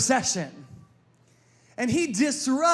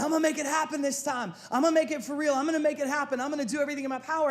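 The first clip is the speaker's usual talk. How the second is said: determined resolve; 4 semitones higher, much faster than usual. Acted. Acting out a new year's resolve.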